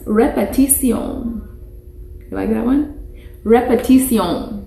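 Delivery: Repetición said re-pe-ti-SYON, stress on the last syllable; teacher modelling repetición; Spanish word model. Shown as a demonstration. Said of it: "Okay, you try".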